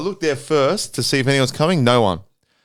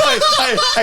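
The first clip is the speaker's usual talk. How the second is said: mock yelling. Imitating muffled yelling.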